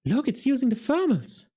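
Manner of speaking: enthralled. A narrator's reading. Lady Ramkin enthralled.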